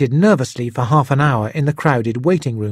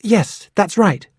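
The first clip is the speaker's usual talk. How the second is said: higher, slow reluctant admission; hesitant young Hiro; 8 semitones higher, slower than usual. A narrator's reading. Hiro finally answering the detective, hesitant and slow. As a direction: concede it slowly and higher. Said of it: "Hiro said at last".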